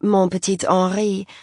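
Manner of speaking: a lightly voiced French accent on mon petit Henri; a socialite showing off her French on mon petit Henri. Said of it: "She said the name with an impeccable French accent".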